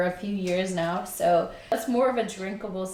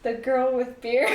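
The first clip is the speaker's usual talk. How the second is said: louder with a rise on Beer; proud announcement; 4 semitones higher, 4 dB louder than usual. Real, not acted. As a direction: announce it like a show title. Names her channel twice.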